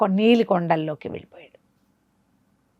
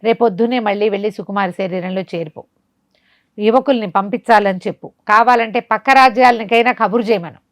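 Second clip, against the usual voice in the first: sorcerer ordering; 3 semitones higher, 3 dB louder than usual. Acted. Sorcerer scolds and plans sacrifice.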